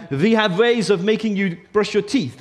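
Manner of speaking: mock German interrogator accent; hammed-up German villain accent; comic German accent. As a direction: put on a light, silly German accent. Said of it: "a sort of a low, low-esque German accent".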